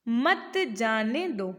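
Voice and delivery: slow, stretched "मत जाने दो" as one group; pause-marked phrasing. Shown as a demonstration. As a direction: draw out "मत जाने दो" together. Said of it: "एक मैंने लिखा रोको".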